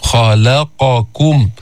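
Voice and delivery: heavy خ in خلقكم, syllable by syllable. Shown as a demonstration. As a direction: draw out خلقكم, back of the tongue lifted on خ. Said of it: "يرتفع أقصى اللسان لأنه في استعلاء".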